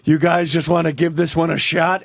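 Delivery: a hint of a famous actor's delivery; Clint Eastwood impression. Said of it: "Clint goes".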